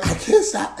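high-pitched helpless plea; retold panic. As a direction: act out being scared by your own laughter. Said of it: "It was so scary".

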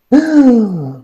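long, high mock gasp; hammed-up intake of shock; acted shocked gasp. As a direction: gasp as if bad news just hit. Acted shock at bad news.

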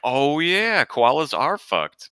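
high "oh yeah" then slow laughing verdict. Retold or imitated. Reacting to the koala reveal, laughing. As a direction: laugh through the realization. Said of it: "I'm like".

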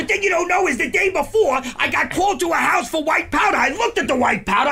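loud, high, rushing retelling; excited. Real, not acted.

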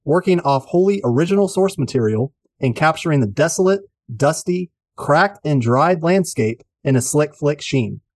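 showy rhythmic podcast host read; rhyming intro read. Acted. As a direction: perform the rhymes like a showman.

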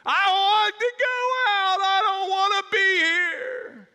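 put-on high, loud whiny kid wail; wailing child. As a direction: wail like a scared little boy. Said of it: "Charles starts wailing and screaming".

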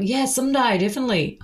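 imitated Aussie guy. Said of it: "And he'd be like".

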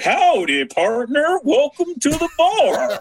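high, slow hammed-up howdy; mock cowboy greeter. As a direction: greet like a cheesy robot cowboy. Voicing bar AI greeting.

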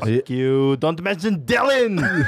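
slow, laughing Arnold growl; cursing the host in a mock Schwarzenegger voice; Arnold impression, angry. Podcast guest as Arnold snaps at host, slow mock growl.

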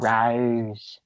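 Rose said the British way, rounded and drawn out; a light British Rose. Shown as a demonstration. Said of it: "You have to say it like".

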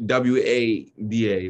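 W A D A, slow letter by letter; spelled-out pronunciation. Shown as a demonstration. Showing how we say water in New York, spelled-out pronunciation. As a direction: spell W A D A slowly, ending on A with no R. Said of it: "We say".

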